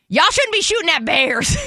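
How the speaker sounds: ominous voice. Retold or imitated. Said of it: "this ominous voice from nowhere".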